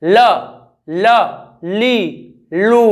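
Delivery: ल, ली, लू with the mouth kept open; l syllable drill. Shown as a demonstration. Teacher shows ल ली लू with an open mouth. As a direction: separate ल ली लू with no trill. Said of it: "मुंह बंद होगा तो वहाँ भी गलती".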